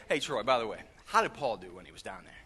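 low, offhand aside; mock casual inquiry. Jesus casually asks Troy about Paul in heaven, offhand. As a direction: drop low as if asking by the way.

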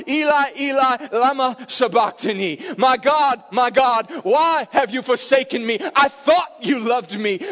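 loud, anguished cry to God, half chanted. Pretend. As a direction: cry it out like a forsaken man. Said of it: "tempted ... to cry out".

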